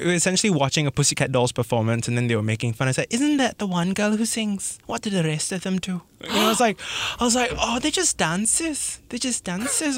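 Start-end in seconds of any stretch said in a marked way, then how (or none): 3.1-6.0 higher, mock English accent; catty quote in imitated English accent; a singer. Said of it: "Your Scouse accent". 7.6-10.0 high, slow mock English accent; softer catty mimicry with an English accent; a singer. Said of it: "Your Scouse accent".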